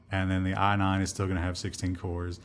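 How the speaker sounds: underwhelmed, winding down; unexcited. Real, not acted. Host reporting Intel's next chips, sounding unexcited. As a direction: deliver the news with little enthusiasm. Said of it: "You don't sound excited".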